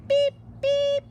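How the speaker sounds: high loud beep beep; car horn voice. Acted. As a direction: toot like a starting horn. Starting horn sound.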